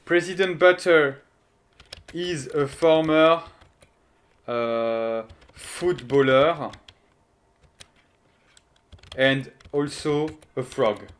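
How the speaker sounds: slow, drawn-out English dictation. Shown as a demonstration. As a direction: spell it out slowly for chat. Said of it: "dictating pun slowly for chat". (dictée lente)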